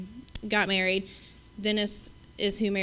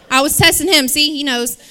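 laughing; 6 semitones higher, 12 dB louder than usual. Real, not acted. Joking with laughter.

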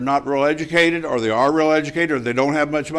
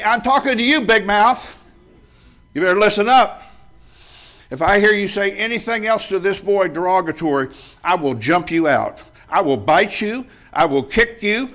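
higher and louder, hammed-up tough talk; retold threat; 4 semitones higher, 4 dB louder than usual. Young sailor threatening the barracks bully, loud mock fury. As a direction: threaten him like a sailor ready to fight.

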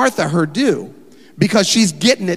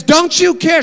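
much higher and louder, accusing; indignant Martha; 12 semitones higher, 6 dB louder than usual. Acted. Martha scolding Jesus for her idle sister, shrill-pitched loud complaint. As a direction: snap it at him like you're fed up.

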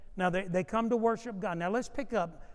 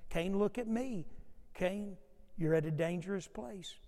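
softer, gentle parent voice; parent to child; 4 dB quieter than usual. Acted. A parent gently warning a child, softly. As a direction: talk him down like a small child. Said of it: "like a parent talking to a child".

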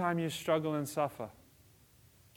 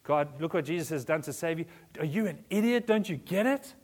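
mock preachy bashing; 2 semitones higher than usual. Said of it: "You don't bash people over the head".

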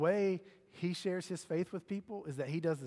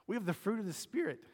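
voice jumps up; 4 semitones higher than usual. Real, not acted. Pastor to congregation, voice accidentally jumping higher. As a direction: pitch suddenly shoots higher mid-sermon. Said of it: "Ooh, my voice just went way up".

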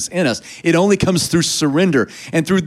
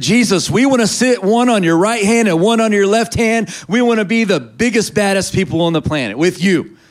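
higher-pitched mock eagerness; eager disciples imitated; 5 semitones higher than usual. Preacher imitating disciples asking Jesus for top seats, eager. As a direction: pipe up like pushy followers. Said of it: "The disciples came and said".

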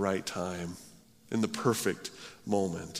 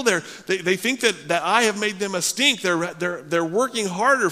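whiny, higher, louder complaining rant; temper tantrum; 9 semitones higher, 5 dB louder than usual. Retold or imitated. Moses ranting at God in a mock temper tantrum. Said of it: "in the middle of a temper tantrum".

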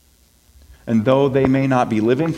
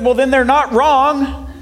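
slow blunt truth; 11 semitones higher, slower than usual. Retold or imitated. Coach bluntly tells short girls.

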